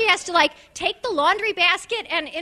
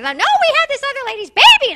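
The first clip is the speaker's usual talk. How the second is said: mock answer; 10 semitones higher, 8 dB louder than usual. Mock reply to receipt checker.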